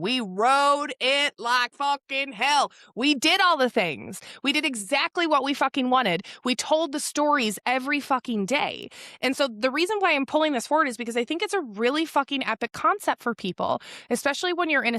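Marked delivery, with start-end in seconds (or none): 0.0-8.9 higher, drawn-out proud proclamation; triumphant declaration. Acted. Imagined woman celebrating her life on her deathbed, high drawn-out triumph. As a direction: stretch it out high, building into triumph.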